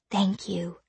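silent mouthed thanks. A narrator's reading. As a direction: barely breathe the words.

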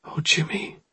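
acted weeping down the phone; small, upset voice; crying. A narrator's reading. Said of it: "Oryx was crying".

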